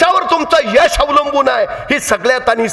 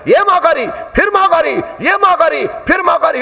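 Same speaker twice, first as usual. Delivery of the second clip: raised chanting calls, each माघारी falling; villagers calling out; 5 semitones higher than usual. Retold or imitated. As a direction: call him back again and again. Village calling last boy back.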